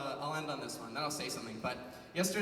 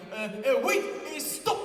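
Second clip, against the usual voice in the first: imitating the stranger; 5 semitones higher, 3 dB louder, slower than usual. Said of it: "and he's like".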